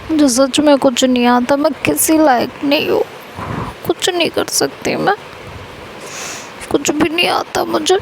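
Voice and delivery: mock weepy whimper, fading away; tearful self-pity. Rashmi telling Neha she is useless, on the verge of tears. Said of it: "अभी रोना धोना बंद कर".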